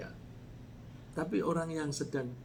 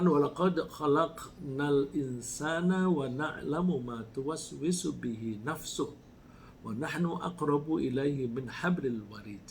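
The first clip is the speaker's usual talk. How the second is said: slow, measured Arabic recitation; Quran recitation; slower than usual. Acted. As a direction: recite the verse slowly, drawing out the syllables.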